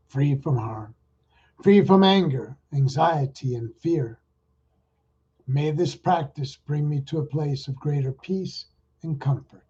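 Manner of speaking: guided meditation. Acted. Leads a metta meditation.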